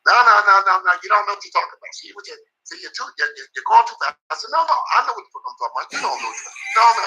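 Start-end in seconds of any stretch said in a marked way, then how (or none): 0.1-4.2 raised, higher-pitched retort; hammed-up scolding, much higher; mock angry trainer. Trainer shouting down his fighter in private, mock angry and higher. 4.5-7.1 rattled off fast and higher; quick hammed-up comeback; mock angry retort. Boxer snapping back at his trainer, fast and higher.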